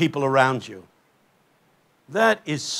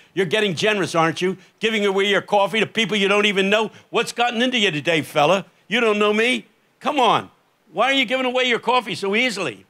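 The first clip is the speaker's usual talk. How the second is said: quick, higher-pitched ribbing; mock questioning; 4 semitones higher than usual. Preacher quizzes street man about his sudden generosity, brisk mock questioning. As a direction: pepper him with brisk questions.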